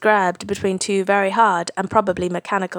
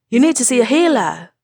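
higher and louder with worry; urgent, rising; 4 semitones higher, 4 dB louder than usual. A narrator's reading. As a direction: push it, alarmed. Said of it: "voice rising".

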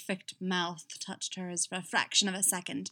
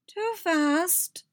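high, loud mock scolding; 11 semitones higher, 6 dB louder than usual. A narrator's reading. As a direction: scold them with a sharp rise in pitch. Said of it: "Fenn scolded".

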